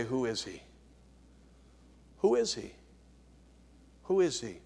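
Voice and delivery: a soft altar-call murmur; hushed appeal. Acted. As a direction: draw the listener in close and quiet.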